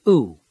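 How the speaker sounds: "Oo." as a long rounded oo vowel, as in food; long oo sound. Shown as a demonstration. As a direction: hold "Oo." as a long, tight, rounded oo.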